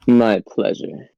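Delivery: slow, sinister villain purr; evil voice. Acted. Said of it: "That was an evil voice".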